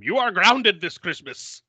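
mildly hammed-up scolding, slow and high; pissed-off dad. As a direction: lay down the law as a mock-angry dad. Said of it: "is pissed and grounds him".

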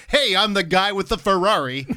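cocky soap-opera doctor. Acted. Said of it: "he's just sort of like".

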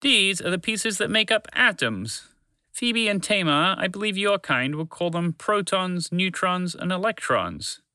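patient explainer. Acted. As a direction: explain it gently and slowly. Dragon explains atoms.

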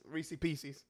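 "Reese's Pieces" said as "Reesee Peecee"; "Pieces" ending in an ee sound; accented pronunciation. Real, not acted. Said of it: "It's my accent".

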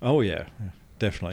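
dry deadpan sarcasm; sarcastic. Acted. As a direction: agree with obvious irony. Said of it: "You're, you're being sarcastic there".

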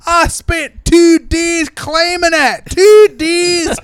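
very high, loud squeaky little-man voice; tiny Colin Farrell. Pretend. Mocking Colin Farrell as a tiny man, high squeaky voice. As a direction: play a tiny man dwarfed by everything.

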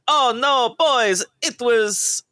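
high cartoon character voice, drawn out; high-pitched, stretched-out praise; Charles Martinet. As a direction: imitate a delighted restaurant owner, high and slow. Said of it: "he's like".

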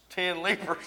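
"lepers" said as LEE-perz; imitated misreading, "lepers" rhyming with "keepers". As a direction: say "lepers" with a long ee, like "leapers". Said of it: "said that she was reading".

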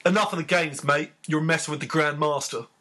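put-on a London geezer accent on the quote; light London geezer accent. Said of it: "are they all gonna be done in that geezer accent".

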